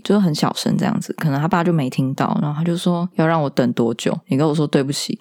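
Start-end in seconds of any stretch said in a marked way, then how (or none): 3.1-5.1 a hint of a stern father's cold scolding; flat, cold mock reprimand; fierce and cold. Retelling a father scolding his son, mildly cold and stern. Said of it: "就是这么凶哦".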